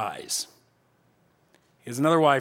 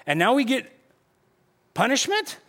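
bewildered protest; 4 semitones higher than usual. Acted. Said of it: "stuck in this scenario where they're like".

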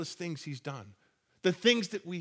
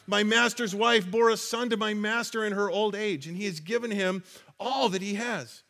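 excited retelling; 3 semitones higher than usual. Retold or imitated. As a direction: keep the buzz of amazing news going. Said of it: "I can only imagine how excited he was".

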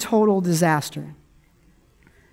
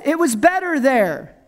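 higher, whiny complaint; mock whining; 4 semitones higher than usual. Israelites grumble to Moses about Egypt, mock whining. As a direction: whine it as a grumbler. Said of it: "crying and whining and throwing a fit".

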